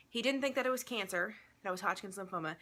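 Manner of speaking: breathless after chasing the dog; out of breath. Real, not acted. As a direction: talk while catching your breath. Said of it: "I'm out of breath".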